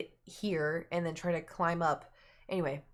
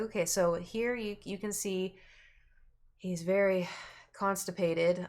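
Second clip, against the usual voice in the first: slightly winded, breathing between words; talking while short of breath. Real, not acted. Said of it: "I'm, like, running out of breath".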